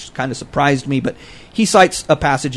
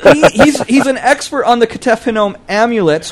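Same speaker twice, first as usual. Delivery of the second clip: higher, "amulets" corrected to AM-yoo-lets through laughter; amused self-correction; 6 semitones higher than usual. Real, not acted. Scholar correcting his slip to co-hosts, laughing on "amulets".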